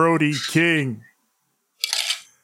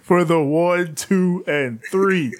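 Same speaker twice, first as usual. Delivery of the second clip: shouted referee count; 2 semitones higher, slower than usual. Retold or imitated. Calling the pinfall count.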